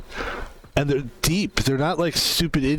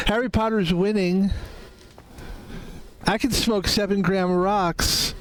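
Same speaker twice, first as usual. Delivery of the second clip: Charlie Sheen impression; 6 semitones higher than usual. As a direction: boast like a spaced-out star. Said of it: "like, a Charlie Sheen, like, you know, winning thing".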